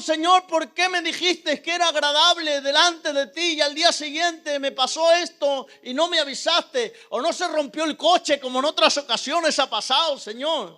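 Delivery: imploring, aggrieved questions; pleading with God. Retold or imitated. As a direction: press each question as a mild reproach. Retold anguished questioning of God.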